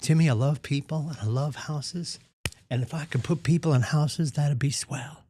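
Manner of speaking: mildly imitated Southern Belle accent. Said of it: "like, a Southern Belle accent".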